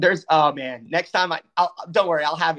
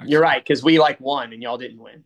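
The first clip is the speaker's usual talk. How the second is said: offhand comeback, dropping lower at the end; nonchalant; 3 semitones lower, 3 dB louder than usual. Real, not acted. Fan conceding to a rival before the jab, nonchalant. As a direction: concede it casually, then land the jab. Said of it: "That was so nonchalant".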